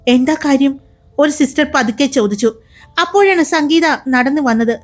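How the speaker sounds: brisk, expressive storyteller voice; story narration. A narrator's reading. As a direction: read it like an audio drama narrator. (കഥ പറയുന്ന ശൈലി)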